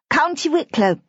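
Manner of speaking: lightly voiced small girl, high and bright-eyed; a young child proudly naming a place; little girl voice. A narrator's reading. Little girl telling her father's friend where Daddy lives. Lucy answers Simmy's father.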